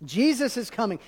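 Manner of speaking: usual speaking voice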